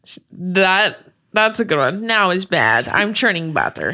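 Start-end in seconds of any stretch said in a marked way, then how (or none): 2.0-3.9 imitated Russian lady's accent; lightly put-on Russian accent. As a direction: quote her in a Russian accent. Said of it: "That's how she says it".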